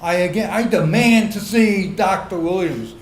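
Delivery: loud commanding demand; authoritative outdoor voice. Retold or imitated. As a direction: call for the doctor with authority. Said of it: "in my best authoritative outdoor voice".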